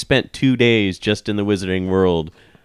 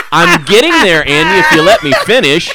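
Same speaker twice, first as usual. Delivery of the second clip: loud, laughing protest; 12 semitones higher, 8 dB louder than usual. Real, not acted. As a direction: laugh while pushing back.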